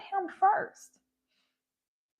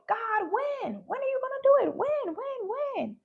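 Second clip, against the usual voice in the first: anxious pleading; 4 semitones higher than usual. Retold or imitated. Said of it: "feeling anxious because I'm like".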